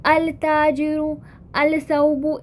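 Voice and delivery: अल ताजिरु with the l sounded, not assimilated; wrong student way. Shown as a demonstration. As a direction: say अल सौबु keeping the al separate, as students wrongly do. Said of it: "इस तरह से pronounce करते हैं".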